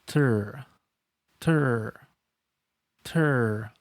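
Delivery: "Ter" with an unrolled, unbounced American R; ter sound. Shown as a demonstration. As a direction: keep the R smooth. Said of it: "does not bounce and does not roll".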